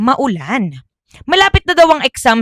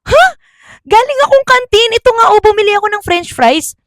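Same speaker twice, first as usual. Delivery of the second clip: puzzled surprise; 11 semitones higher, 3 dB louder, faster than usual. Acted. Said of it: "sabi niya naman".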